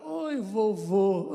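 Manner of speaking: voz doce e arrastada de neta; neta carinhosa. Retold or imitated. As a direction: esticar o oi, vovô com carinho. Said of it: "E ela fala". (neta cumprimentando o avô, leve imitação arrastada)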